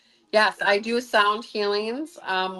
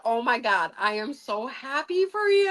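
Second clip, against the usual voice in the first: rising into high, gushing delight; overjoyed reaction; 4 semitones higher than usual. Retold or imitated. Healer reacting to the woman's cure, overjoyed gushing. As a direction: gush it, climbing in pitch. Retold joy at cancer cure.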